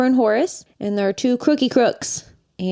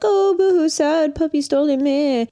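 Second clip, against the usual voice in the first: mocking sob story; 5 semitones higher than usual. Cruella reading the papers, mock sympathy sneer. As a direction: sneer through a fake sob, pitched way up.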